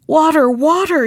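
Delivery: high storybook plea; acted desperate appeal; despairing cry. A narrator's reading. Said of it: "he cried in his despair".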